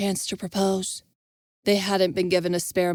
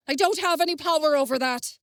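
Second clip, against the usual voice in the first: higher, exasperated outcry; yelling; 8 semitones higher than usual. Acted. Envis defending himself to Jenna, yelling. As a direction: push back in frustration. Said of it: "Envis yelled".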